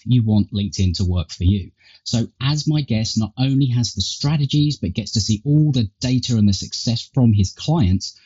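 tinny earbud mic sound; thin, tinny recording through earpods. Real, not acted. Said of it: "I guess, a tinny tone".

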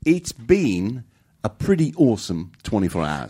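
slow mock Kiwi accent, second try; New Zealand accent. Cohost repeating the clip in a New Zealand accent. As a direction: lean into the New Zealand vowels. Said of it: "You would be our representative".

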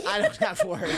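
high squeak through laughter; laughing, pitched high. Real, not acted. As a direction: crack up mid-line, voice jumping up. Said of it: "Why did you say it like".

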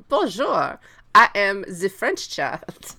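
a lightly voiced, slow French child; a mild mock of a prim little French girl. Imitating Adele in the 1943 film, lightly voiced and slow. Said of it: "she is just like".

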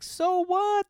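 high, loud retold scoff; scoffing dismissal. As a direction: shoot back as if it's nothing. Retold brushing aside of boyfriend objection.

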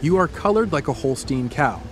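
low, measured storyteller; scene-setting narration. A narrator's reading. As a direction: ease the listener into the scene. Sets a second-person scene.

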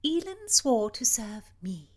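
firm princess. Acted. Princess refuses the marquis.

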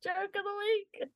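jingle-like announcement. Acted. Announcing the segment title.

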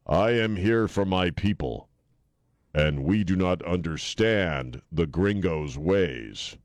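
lightly voiced noble proclamation, slowing down; solemn noble hero, drawn out. Mocking a TV hero speaking for his people, noble. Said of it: "do a noble".

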